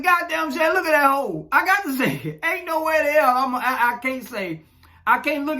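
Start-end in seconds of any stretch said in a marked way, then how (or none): 0.0-1.5 higher mock exclamation, blunt; blunt reaction. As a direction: blurt out what he really thinks. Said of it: "But I said".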